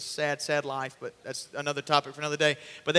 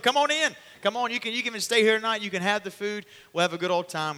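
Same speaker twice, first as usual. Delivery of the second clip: hearty welcome; 5 semitones higher, 4 dB louder than usual. Acted. Simon welcoming guests heartily.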